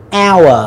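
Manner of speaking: "hour" said like "our"; silent H. Shown as a demonstration. Teacher showing students the mute letter, silent H. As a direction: start "hour" on the vowel, no H. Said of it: "chữ hát nó thuộc là âm câm".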